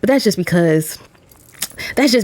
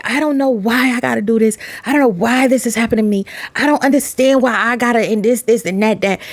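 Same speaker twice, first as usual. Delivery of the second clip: higher, mock whining; higher, mock whining about life's burdens; whiny complaining; 4 semitones higher than usual. Mocking people complaining.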